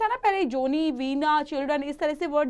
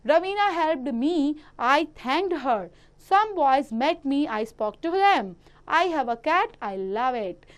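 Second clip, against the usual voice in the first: slow, deliberate reading of example sentences; textbook read-aloud; much slower than usual. Acted. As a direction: read each sentence out slowly for young pupils. Reads example sentences to pupils. (बच्चों के लिए धीरे-धीरे वाक्य पढ़ना)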